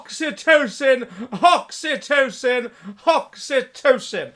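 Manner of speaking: loud, laughing hammy exclamations; laughing giant voice. Acted. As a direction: cry it out with a jolly laugh. Joke ending ghost voice.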